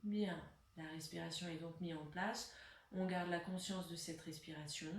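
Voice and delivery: sparse, unhurried meditation-style guidance; guided breathing. Real, not acted. Leads a breathing exercise.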